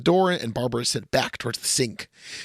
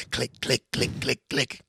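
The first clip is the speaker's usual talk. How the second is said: clicking noise; 3 semitones lower, 3 dB quieter, slower than usual. Acted. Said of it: "make a long clicking noise".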